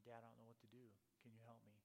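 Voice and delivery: softly imitating a worried son; quiet, understated plea to a father; retold earnest appeal, voice dropped; deep concern. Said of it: "with a deep concern".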